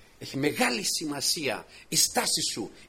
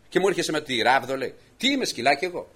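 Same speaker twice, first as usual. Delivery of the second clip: indignant giant; 3 semitones higher, 4 dB louder than usual. Acted. Goliath insulted by the staff.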